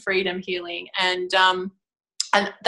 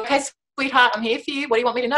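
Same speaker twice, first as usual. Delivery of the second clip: a touch higher, coaxing and gentle; soothing reassurance; 4 semitones higher, much faster than usual. Retold or imitated. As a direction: coax a tantrumming inner child. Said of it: "she'll chuck a tantrum and I'll go".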